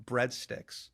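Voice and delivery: American accent. Shown as a demonstration. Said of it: "You gotta hit the".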